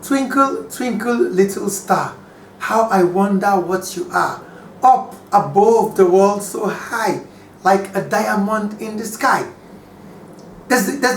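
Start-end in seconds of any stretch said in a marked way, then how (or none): 0.0-9.5 poem recital. Shown as a demonstration. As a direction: read it like reciting a children's rhyme to a class. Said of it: "Listen to the lines".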